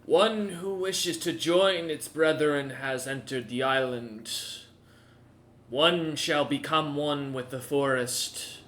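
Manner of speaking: slow, solemn ancient tree; lightly voiced solemn tree spirit; talking tree. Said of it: "tree speaks and goes".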